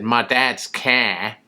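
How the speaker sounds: slow, lightly imitated Boston accent. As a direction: stretch it out in a clumsy Boston accent. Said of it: "But when he said".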